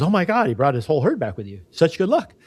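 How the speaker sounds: a touch of mock amazement from the neighbor; excited neighbor. Storyteller voicing the neighbor at the returned herd, mildly excited.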